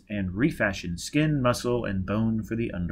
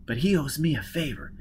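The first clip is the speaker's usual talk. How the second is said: higher-pitched woman character recounting her escape; higher voice, story told to an accomplice; Jiz, hard-edged escapee; 5 semitones higher than usual. Acted. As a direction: tell the escape in a raised character voice. Voices Jiz continuing her account.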